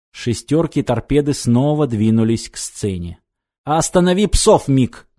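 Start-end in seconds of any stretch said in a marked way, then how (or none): 3.6-5.1 sharp, higher whip-crack order; sharp command. A narrator's reading. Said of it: "резко приказал".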